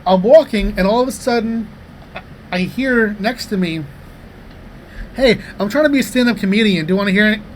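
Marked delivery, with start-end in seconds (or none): 5.2-7.4 higher, lightly imitated eager stranger; eager would-be comedian. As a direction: pitch yourself like a hopeful amateur comic. Acted would-be comedian pitching bits.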